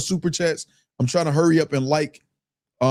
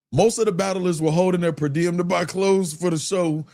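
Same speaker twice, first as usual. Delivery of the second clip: laughing. Real, not acted. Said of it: "I can't do it".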